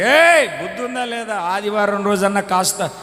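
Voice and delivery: a woken father snapping at the noise; annoyed father. Retold or imitated. Woken father scolding his wife about the crying child, irritated.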